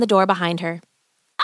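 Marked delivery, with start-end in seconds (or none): 1.4-1.4 witch scream. Acted. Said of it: "the witch cried from inside".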